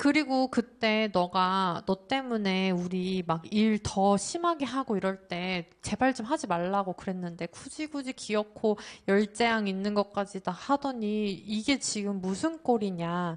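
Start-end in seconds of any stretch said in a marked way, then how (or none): none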